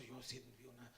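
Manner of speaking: low, soft mock seer's voice; mock visionary. Preacher imitating today's visionaries claiming a vision, mock visionary. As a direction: lightly imitate a self-styled seer, low and hushed. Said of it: "Como le hacen los de, los de ahorita".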